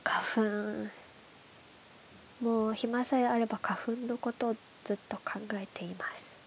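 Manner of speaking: stuffy nose from hay fever; nasal voice. Real, not acted. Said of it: "鼻詰まりの鼻声で喋ってます".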